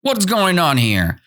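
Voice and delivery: high-pitched shocked questioning; acted outcry of startled ants; crying out. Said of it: "The ants cried like".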